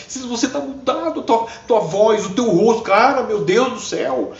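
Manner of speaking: amazed exclamation. Retold or imitated. Girl marveling that Silas has changed, amazed. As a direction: gasp at the change in him.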